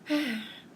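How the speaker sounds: audible sigh. Acted. Mouse lamenting bear's selfishness, sighing. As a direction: breathe out in disappointment.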